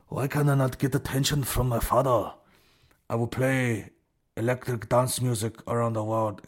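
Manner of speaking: lightly put-on formal, stiff speech; hint of a wooden, overly proper voice; stilted mock DJ. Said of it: "He doesn't talk like that at all".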